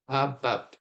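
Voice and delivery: "about" in two separate beats, weight on "bout"; overemphasized iambic stress. Shown as a demonstration. Lecturer repeats the iambic example for clarity, stress on the second syllable of "about". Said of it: "I'm overemphasizing here for clarity".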